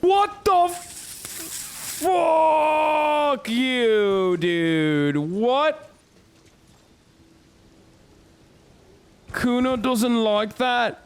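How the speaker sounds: high-pitched mock Scouse lad, cocky and swearing; squeaky put-on Liverpool bravado; Kuno voice. Streamer voicing his character Kuno while fighting, high mock Scouse. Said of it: "I'm trying to do a Kuno voice".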